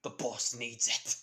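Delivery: slow, lightly voiced menacing henchman; slow, lightly voiced gangster demand; a hint of a slow heavy goon; thug voice. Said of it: "some person yelled out saying".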